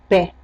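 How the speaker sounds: Pé with a clear open é; open E demo. Shown as a demonstration. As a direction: model Pé with an open eh vowel. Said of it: "um E diferente do outro".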